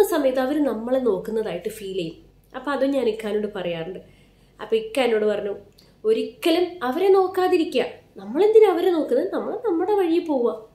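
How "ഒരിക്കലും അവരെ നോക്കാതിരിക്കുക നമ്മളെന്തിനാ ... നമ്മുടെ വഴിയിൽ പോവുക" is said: higher, louder voice laying down the rule as the husband; husband's firm advice. Retold or imitated. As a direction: imitate the husband insisting, a little raised. (ഭർത്താവിന്റെ ഉറച്ച ഉപദേശം, ഉയർന്ന ശബ്ദത്തിൽ)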